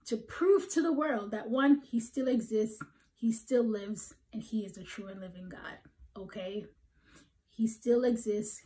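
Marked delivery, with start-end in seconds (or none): 4.3-6.7 soft whisper, hushed and intense; whispered emphasis. Real, not acted. Preacher to his flock, hushed whisper. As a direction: lean in and breathe it.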